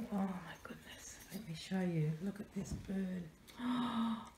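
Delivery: hushed, breathless whisper of delight; awed whisper. Real, not acted. Whispering to the camera over a gift. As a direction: whisper it like a treasured secret.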